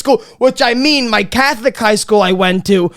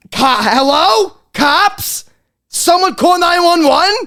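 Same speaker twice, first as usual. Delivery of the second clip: high, stunned call for help from the floor; dazed mock panic; 8 semitones higher, slower than usual. Player knocked to the floor calls out for help, high and dazed. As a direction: play it like a knocked-out kid calling for cops. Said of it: "you're looking around like".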